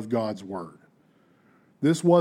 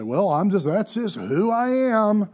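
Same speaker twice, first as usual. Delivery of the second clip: mock shrugging excuse; 7 semitones higher than usual. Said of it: "If I can just say".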